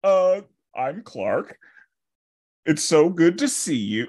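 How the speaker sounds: high, chipper, overly polite greeting; overly friendly greeting. Retold or imitated. Clark greeting the Kryptonian couple in a high, overly friendly voice. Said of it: "he was like".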